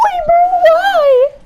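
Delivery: shout. Real, not acted. Gamer raging at loss.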